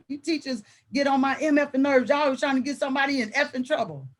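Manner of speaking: imitated student complaint, quickening at the end; student rant. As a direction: retell a kid's little rant. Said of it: "he's doing his little rant".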